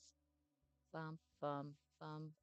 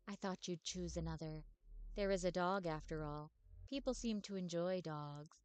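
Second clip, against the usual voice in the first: wistful ghostly vampire telling her sad past; 4 dB quieter than usual. Acted. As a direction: sigh it out like a weary centuries-old vampire. Agatha voice again.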